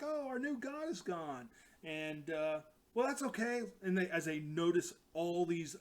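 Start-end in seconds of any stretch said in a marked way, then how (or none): 0.0-1.5 higher, lightly cute creature voice; a little critter sighing. Retold or imitated. Bunnies mourning their god in a higher cute voice. 2.9-3.6 higher, lightly cute creature voice; a little critter sighing. Retold or imitated. Bunnies mourning their god in a higher cute voice.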